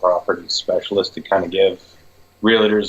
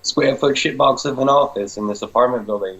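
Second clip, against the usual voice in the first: quoting the client; 6 semitones higher than usual. Retold or imitated. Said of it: "He's like".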